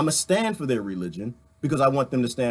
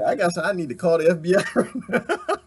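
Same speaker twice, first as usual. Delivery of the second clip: laughing. Real, not acted. Laughing while joking about FBI.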